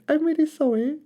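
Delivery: put-on gentle baby dinosaur pleading; little Drip. A narrator's reading. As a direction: apologise like a small shy dinosaur. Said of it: "he said".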